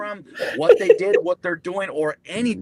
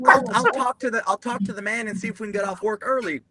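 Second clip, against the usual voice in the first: mock earnest chaplain, pitched up then easing down; doe-eyed false hope; 5 semitones higher, faster than usual. Chaplain promising troops an early finish, mock doe-eyed hope. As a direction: imitate a naively hopeful chaplain. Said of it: "dumb P F C doe-eyed false hope".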